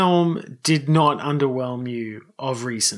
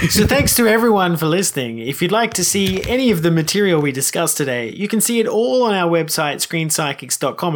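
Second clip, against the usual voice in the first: announcer voice; 2 semitones higher than usual. Acted. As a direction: sell the sign-off like a radio announcer. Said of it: "I really like this announcer voice".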